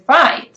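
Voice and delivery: "right" with a rising pitch; rising intonation. Shown as a demonstration. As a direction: let "right" lift upward in pitch. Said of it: "it is rising on the word".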